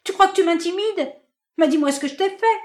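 high, loud, shrill-pitched rant; furious tirade. Acted. Marinette raging at her indifferent lover, loud high tirade. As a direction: hurl every grievance at him.

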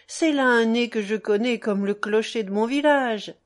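talkative, teasing brother consoling; lightly voiced Médéric, chatty. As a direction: cajole a sobbing brother with easy banter. Voices Médéric talking to Sidoine.

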